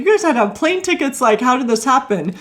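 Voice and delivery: high, fast excited questions; breathless thrilled asking; amazed disbelief. Retold or imitated. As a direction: gush with astonishment. Amazed friends flew in.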